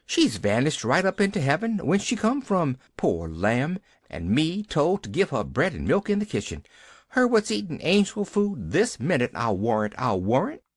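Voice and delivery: a lightly voiced fretful housemaid; agitated servant woman. Nancy frets to old Tom about the vanished child. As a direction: fret aloud, voice lifted high.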